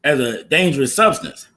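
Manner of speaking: munching between words; eating chips. Real, not acted. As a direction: mouth full of chips. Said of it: "I'm eating chips right now".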